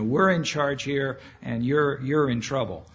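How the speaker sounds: lightly acted soldier, firm and demanding; mildly demanding voice of a soldier in charge. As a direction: assert your authority with a slight push. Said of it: "hear the soldiers kind of demanding".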